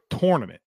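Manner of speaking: TOURNAMENT starting like tore; TOR pronunciation. Retold or imitated. Host quoting his Philadelphia friend, TOR pronunciation of TOURNAMENT. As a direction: say tournament with an or vowel. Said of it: "Bob is from Philadelphia, and Bob says".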